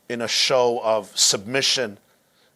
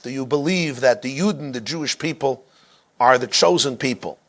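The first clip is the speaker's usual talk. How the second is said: sneering. Retold or imitated.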